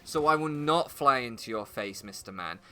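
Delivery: slow, deliberate mock objection; mock-reasonable pigeon. Pigeon to the man about consent, slow mock-reasonable objection. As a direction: lightly voice a pigeon stating its boundaries. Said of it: "the pigeon's just gonna be like".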